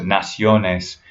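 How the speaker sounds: slow "naciones" as nah-SYO-nes; weight on the O in "naciones"; Spanish "naciones", middle syllable stressed. Shown as a demonstration. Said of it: "still stressing the O in naciones".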